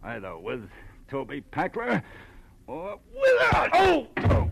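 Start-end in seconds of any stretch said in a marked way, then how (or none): 2.7-4.5 sudden pained gasps; cry of pain. Acted. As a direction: cry out as the shot hits. Shot, cries out in pain.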